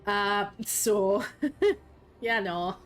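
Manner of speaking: put-on Scottish accent, casual storytelling. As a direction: retell the lore in a hammed-up Scottish accent. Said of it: "You want me to speak Scottish for a minute?".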